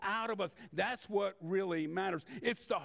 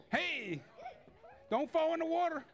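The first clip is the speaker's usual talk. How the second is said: calling out; 10 semitones higher than usual. Real, not acted. Calling out a warning to a child.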